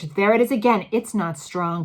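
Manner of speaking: loud excited witch; shouting. A narrator's reading. First witch announcing the smell, loud. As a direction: call it out sniffing. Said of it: "shouted the first witch".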